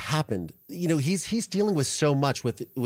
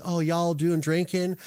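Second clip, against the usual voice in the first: Alec Murdaugh; 4 semitones higher than usual. Retold or imitated. Father chatting to his son on a prison call, bad Southern accent. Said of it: "this is my bad Southern, mm, Alec Murdaugh accent".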